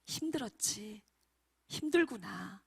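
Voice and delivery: soft, tender words of comfort; hushed sympathy; consoling. Acted. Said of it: "이 말 한마디에 아이들은 위로받고".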